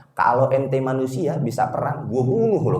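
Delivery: slow, understated acted threat; deliberate, half-joking menace; mock threat. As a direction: play a jealous threat without raising the voice. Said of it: "Langsung ngancem begitu".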